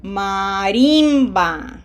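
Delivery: slow maRIMba, held loud RIM; stress on middle syllable. Shown as a demonstration. Teacher asks learners to hear emphasis, Marimba stressed on RIM. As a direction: lean long on RIM in Marimba, then fall. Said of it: "Do you hear the emphasis?".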